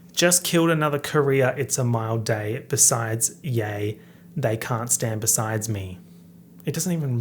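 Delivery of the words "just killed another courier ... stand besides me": rapping the line in a mock Australian accent; lightly put-on Australian rapper voice. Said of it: "if an Australian rapped this in, like, full Australian accent".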